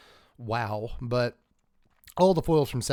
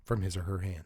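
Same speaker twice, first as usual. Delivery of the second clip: golf commentator voice; 3 semitones lower than usual. Acted. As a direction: murmur it like commentating a putt. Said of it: "I just can't keep up Golf Voice".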